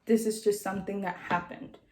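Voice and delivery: imitated grave reassurance. Doctor telling patient it is not her fault, gently grave. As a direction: reassure with measured pauses.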